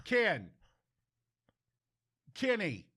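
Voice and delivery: mock someone calling out to be heard; imitating loud phone talker. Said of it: "Loud people. People who wanna be heard".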